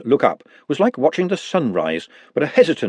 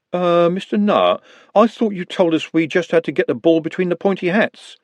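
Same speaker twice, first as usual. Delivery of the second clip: put-on puzzled old wizard drawing it out; Rincewind's voice; 6 semitones higher than usual. A narrator's reading. Rincewind objects, confused.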